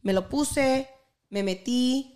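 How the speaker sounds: slipping from English into Spanish; switching languages midsentence. Real, not acted. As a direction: carry on the story in Spanish. Switches to Spanish mid-story.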